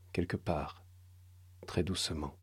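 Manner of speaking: chuchoté très doucement, plus grave. A narrator's reading. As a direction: souffler la suite. Narration tendue. (narration murmurée, tendue)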